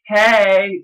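put-on a bright girl's greeting. Shown as a demonstration. Reading her chat as a girl, high girly voice. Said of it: "I'm gonna do this in a girl's voice".

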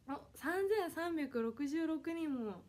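drawn-out, loud, happy exclaim; slow amazed announcement; delighted. Real, not acted. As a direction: savour the number slowly, thrilled. Thrilled at viewer count rising.

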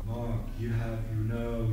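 slow mock Brussels accent; imitating a Belgian speaking English. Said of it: "this is my Brussels accent".

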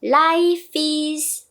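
"Life is" run together; don't split the words; linked life is. Shown as a demonstration. Teacher modelling the link. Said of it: "따로따로 발음하시지 마시고요".

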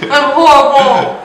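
shaky, slow, disgusted voice; quivering lip. Real, not acted. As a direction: lip trembling from the taste. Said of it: "Why is your lip quivering".

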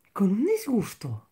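breathy whispered repeat of con un disgusto. Retold or imitated. Whispered repeat of the same words.

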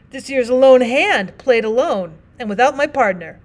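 lightly voiced plain-spoken miner, apologetic; rough miner partner. Partner's parting words.

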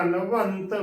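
ਨਵੰਤ slowly as "na-vant"; slow model reading of ਨਵੰਤ; correct pronunciation. Shown as a demonstration. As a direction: hold the nasal before the t in ਨਵੰਤ. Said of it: "ਬੋਲਣਾ ਹੈ".

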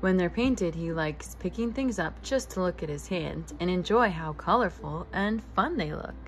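bright, gently animated storybook reading; reading to children. A narrator's reading. Host reading a picture book aloud to young listeners, lively storytelling. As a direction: read it like a bedtime picture book for kids.

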